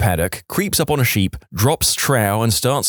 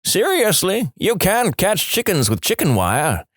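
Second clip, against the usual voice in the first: yelling back; 8 semitones higher than usual. Acted. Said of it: "he yells back".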